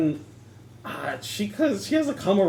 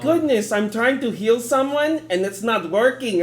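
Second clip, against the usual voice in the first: flustered exclaim; 5 semitones higher, 4 dB louder than usual. Retold or imitated. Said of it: "I'm like".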